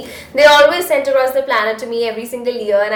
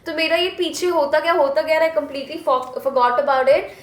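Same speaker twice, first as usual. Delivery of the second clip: Hindi-English code-switching; switching languages midsentence; 3 semitones higher, much faster than usual. Real, not acted. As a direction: swap between English and Hindi mid-line.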